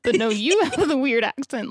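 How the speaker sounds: "you" pushed up in pitch, a mock accusation; stress on "you". Retelling kids and Boston man trading blame, "you" stressed. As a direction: throw the blame back by leaning on "you". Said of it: "Like Spider-Man, that Spider-Man meme".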